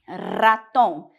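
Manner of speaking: forcefully trilled R starting "ratón"; Spanish "ratón" with a rolled opening R; strong R. Shown as a demonstration. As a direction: roll the first R of "ratón" hard. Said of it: "com força".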